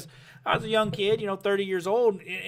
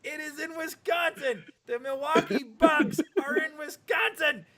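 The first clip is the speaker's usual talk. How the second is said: higher, slower, spelling it out; slow exasperated insistence; 7 semitones higher, slower than usual. Retold or imitated. Telling friends how he corrected buddy, slow exasperated insistence. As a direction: lay it out word by word in disbelief.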